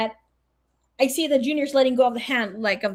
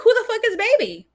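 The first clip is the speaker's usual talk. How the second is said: incredulous; 12 semitones higher, 3 dB louder than usual. Retold or imitated. Confused at friend's shriek.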